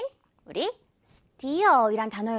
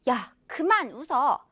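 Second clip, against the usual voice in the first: annoyed; 4 semitones higher than usual. Acted. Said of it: "나는 기분이 안 좋은데".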